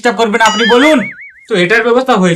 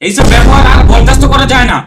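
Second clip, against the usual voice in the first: loud, exasperated scolding; fed-up outburst; 2 semitones higher, 6 dB louder than usual. Acted. Teacher who will tolerate no more from parent, exasperated. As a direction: raise your voice, patience gone. Teacher loses patience with the guardian.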